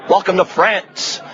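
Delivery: attempted French accent, drawn out slowly; slow, half-hearted French accent. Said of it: "That was my French accent".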